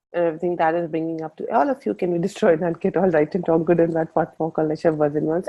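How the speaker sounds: fast ritual recitation; quick routine incantation; rapid clearing statement. Acted. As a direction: run through the formula briskly.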